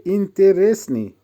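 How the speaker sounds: ইন্তেরেসনি as ইন-তে-রেস-নি; careful pronunciation demo. Shown as a demonstration. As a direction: model ইন্তেরেসনি syllable by syllable. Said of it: "উচ্চারণ হবে". (ইন্তেরেসনি ভেঙে স্পষ্ট উচ্চারণ)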